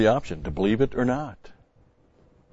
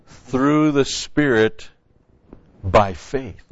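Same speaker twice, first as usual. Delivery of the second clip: "Through the Spirit by faith" read out slowly, leaning on "Through"; slow emphatic reading; 3 semitones higher, much slower than usual. Shown as a demonstration. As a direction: linger on "Through", then an odd-sounding "by faith". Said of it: "Notice it says".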